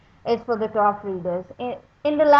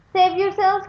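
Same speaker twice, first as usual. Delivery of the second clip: higher, urgent shout of alarm; captain's cry; 7 semitones higher, 4 dB louder than usual. Acted. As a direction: call out to the crew as the ship sinks. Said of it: "cried the captain".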